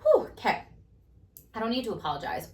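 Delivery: high, loud whew, easing into resolve; relieved self-talk, demonstrated; shameless self-awareness. Shown as a demonstration. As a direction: catch yourself and let it go. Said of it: "build that shameless awareness and say".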